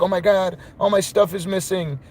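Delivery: lightly hammed-up panicking friend; mock panic. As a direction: play a man who just lost everything. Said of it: "then he started panicking".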